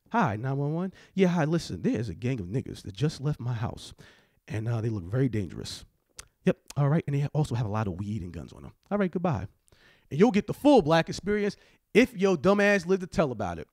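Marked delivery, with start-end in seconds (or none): 0.1-9.5 lightly voiced tipster phoning the cops; mock 911 caller. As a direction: lower and softer, a mild put-on caller voice. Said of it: "anonymous phone call to the police".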